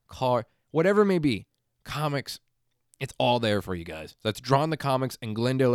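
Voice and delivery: emphatic, punchy host-read promo; podcast ad read. Real, not acted. Host plugging a local comic store, enthusiastic ad read. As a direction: sell the shop to listeners like a loyal regular.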